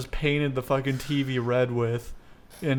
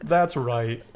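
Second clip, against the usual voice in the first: laughing; 3 semitones higher, 4 dB louder, slower than usual. Retold or imitated. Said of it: "I'm like".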